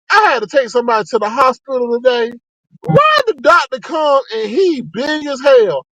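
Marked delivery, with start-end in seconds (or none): 2.8-5.9 slow, crying-laugh shout; can't believe it, laughing; laughing disbelief. Real, not acted.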